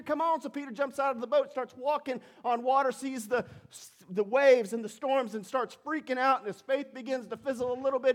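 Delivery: breathless-paced Bible story rising to a high, loud peak; excited storytelling. Real, not acted. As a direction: get carried away retelling the story, pitch climbing. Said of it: "I got so excited today".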